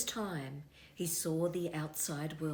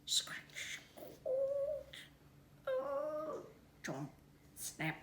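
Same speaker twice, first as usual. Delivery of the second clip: whisper; 5 dB quieter, much slower than usual. A narrator's reading. Night noises told in story.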